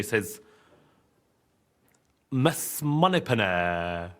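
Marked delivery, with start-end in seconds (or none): 2.3-4.1 slow, low, suave Bond voice; Bond impression. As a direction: drawl it like a smooth spy. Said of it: "I can do an impression of him".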